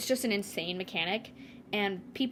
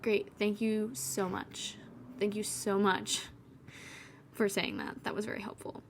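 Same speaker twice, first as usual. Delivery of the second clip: sarcastic thanks; 7 dB quieter than usual. Retold or imitated. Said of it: "And you're like".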